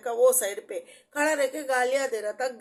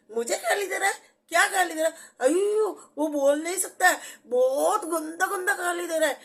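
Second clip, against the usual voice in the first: surprised; 6 semitones higher than usual. Retold or imitated. Her own disbelieving reply retold.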